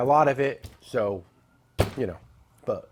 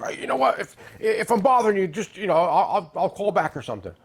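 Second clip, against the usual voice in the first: a hint of the caller's accent, polite and apologetic; mild impression of a caller from Texas; imitating the caller; 3 semitones higher than usual. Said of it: "he had a little bit of an accent".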